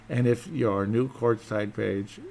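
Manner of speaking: slow stumble over a skipped word; unsure slow reading of Courtside page; misread line. Real, not acted. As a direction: read it haltingly and get it wrong. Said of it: "did I read that wrong?".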